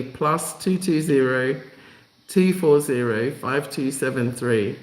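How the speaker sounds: slow, careful dictation of each digit; slow it down so they can write it down; slowly. Shown as a demonstration. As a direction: read the number out slowly, digit by digit. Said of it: "I'll say it again slowly".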